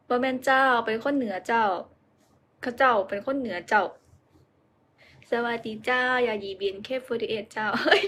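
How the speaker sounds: put-on Northern Thai accent slipping into Isan; attempted Northern Thai accent. Vlogger greeting viewers in a clumsy Northern Thai accent. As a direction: try Northern Thai with the polite เจ้า, but Isan leaks through. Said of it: "พยายามจะพูดเหนือ แต่ว่าออกสำเนียงอีสานฮะ".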